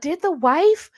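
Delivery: high, breathy true-crime teaser; TV promo voice. Retold or imitated. Mocking a true-crime TV show promo. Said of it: "those shows where you're like".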